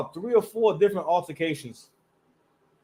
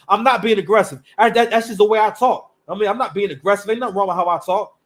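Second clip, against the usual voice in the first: mock cashier; 4 dB louder than usual. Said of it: "She's like".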